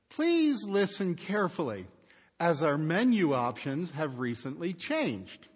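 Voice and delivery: imitating a robotic phone message; robot voice reading the menu line. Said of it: "Then the robotic voice says".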